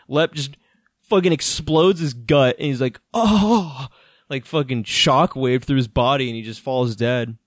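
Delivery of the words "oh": high "oh" of someone hit hard; hammed-up cry from a blow to the gut; mock pained cry. Retelling the exploded gut, mock pained cry. Imitating a gut-punched character.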